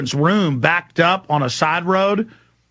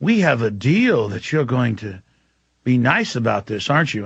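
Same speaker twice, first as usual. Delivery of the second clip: put-on French accent; 4 semitones lower than usual. Commander pleading to keep his job, light French accent. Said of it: "he's got a French accent".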